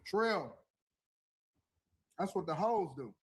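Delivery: talking with his mouth full; chewing while he talks. Real, not acted. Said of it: "Stop talking with your mouth full".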